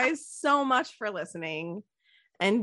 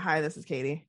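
greeting pitched lower; 4 semitones lower than usual. Shown as a demonstration. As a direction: drop the voice low. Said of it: "should I lower my voice".

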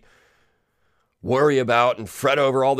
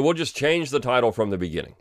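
ordinary talk, nothing marked

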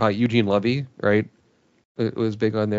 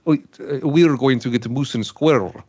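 lightly put-on thick Slavic cartoon accent; overdone Slavic villain, lightly imitated; Boris Badenov. Podcast host demonstrating the cartoon's original voice, light Slavic accent. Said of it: "the voice for Boris was".

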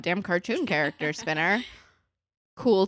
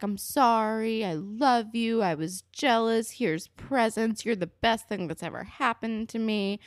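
mock pleading apology; 4 semitones higher than usual. Abuser wooing her back with flowers, mock pleading. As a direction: imitate a gushing apology.

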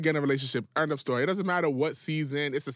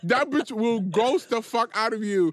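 slow drawn-out tease; 3 semitones higher, 4 dB louder, slower than usual. Real, not acted. Slow teasing accusation.

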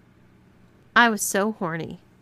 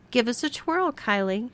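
high, carrying call across the room; shouted call; 5 semitones higher than usual. Acted. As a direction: call her out to twirl. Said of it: "shouted Margot".

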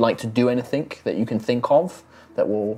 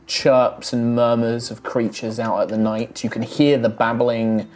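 game master narration. Acted. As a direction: paint the road and storm for the players. Game master sets the scene.

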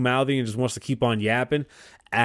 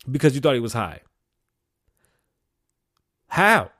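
indignant questioning; 3 semitones higher than usual. Real, not acted. Confronting the officer's logic.

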